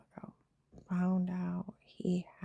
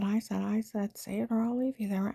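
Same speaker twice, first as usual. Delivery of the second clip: retold screaming; 3 semitones higher, 3 dB louder than usual. Man ordering her to say it or be left, mildly mimicked screaming. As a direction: imitate someone insisting, voice raised a little. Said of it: "And screaming".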